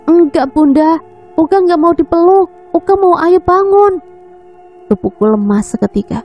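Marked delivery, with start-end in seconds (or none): 0.0-4.0 put-on crying child. A narrator's reading. Crying child refusing a hug.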